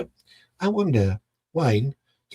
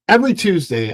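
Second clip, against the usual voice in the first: normal talking voice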